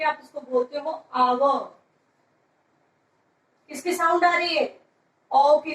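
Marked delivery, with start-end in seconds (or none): 0.0-1.8 आवर said with a silent h, starting on the vowel; आवर with the h left out, starting on the vowel; correct pronunciation. Shown as a demonstration. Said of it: "आप इसको हावर नहीं बोलते हो".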